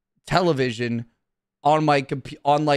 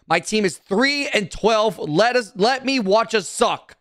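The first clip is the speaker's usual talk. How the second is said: ranting; 5 semitones higher than usual. Real, not acted. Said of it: "That was a good rant".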